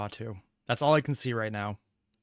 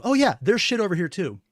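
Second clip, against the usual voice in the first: mock casual voice; 7 semitones higher, 5 dB louder than usual. Mock voice for a faction.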